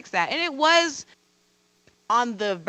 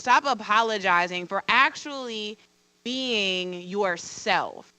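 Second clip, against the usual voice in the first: slow, deliberate quote with drawn-out phrases; retold firm advice; slower than usual. Coworker stops her apologizing, slow and deliberate. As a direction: space out each phrase so it lands.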